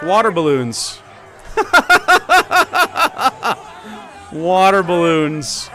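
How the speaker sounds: high loud laugh, slow drawn words. Real, not acted. Streamer laughing at the water balloon footage. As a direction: crack up over it.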